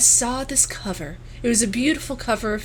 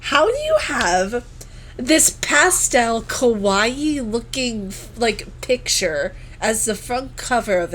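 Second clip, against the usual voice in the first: incredulous; 3 semitones higher, slower than usual. Retold or imitated. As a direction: drag out the question in disbelief. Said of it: "And I was like".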